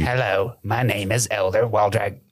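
low, solemn elder greeting; missionary introduction. Retold or imitated.

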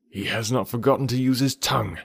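mildly proud bear; chuckle of pride. Acted. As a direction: say it with understated fond pride. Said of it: "said Baloo with a chuckle of pride".

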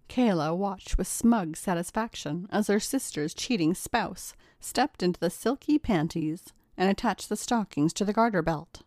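ordinary delivery, nothing marked

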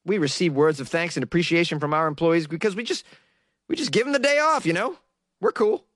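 put-on light Texas accent, rising as it goes. Japanese boss explaining the day off, in a Texas accent. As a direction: read it like an easygoing Texan. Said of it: "a Texas accent".

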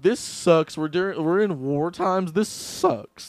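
hammed-up complaint, rising in pitch; mock complaining Americans. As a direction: imitate a crowd moaning about their lot. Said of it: "all the Americans are like".

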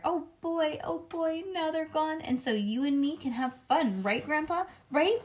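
put-on high, eager child voice; excited little girl. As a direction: bubble over, pleading for agreement at the end. Child celebrates parents leaving.

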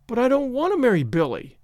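put-on high, protesting young woman; alarmed cry. A narrator's reading. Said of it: "she cried out in alarm".

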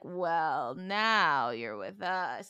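slow down on the last words, creepily; creepy movie imitation. Characters closing in on the villain, creepy. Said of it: "it's, like, this creepy".

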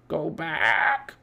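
high squawky parrot voice; Polly squawking. A narrator's reading. Parrot warning the children, squawking. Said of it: "squawked Polly".

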